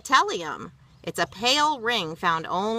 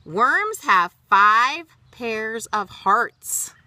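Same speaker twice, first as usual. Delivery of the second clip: slow, louder marvelling; amazed fact; 3 semitones higher, 6 dB louder, much slower than usual. Shown as a demonstration. Reading worm facts to child, marvelling slowly. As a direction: make the fact sound amazing.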